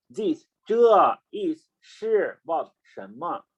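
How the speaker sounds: slow word by word. Shown as a demonstration. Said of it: "now in Chinese way is".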